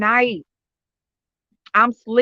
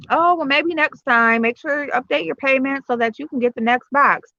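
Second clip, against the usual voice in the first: slightly higher, unhurried mock company rep; imitated customer service; 4 semitones higher than usual. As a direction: lightly mimic a polite subscription service. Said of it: "they're like".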